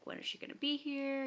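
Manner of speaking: high, mock-anxious question; freaking out. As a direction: mildly panicky imitation, pitched well up. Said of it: "freaking out".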